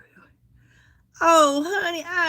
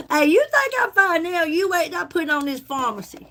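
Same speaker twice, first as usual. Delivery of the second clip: playful boast; 3 semitones higher than usual. Real, not acted. Flirty boast to viewer.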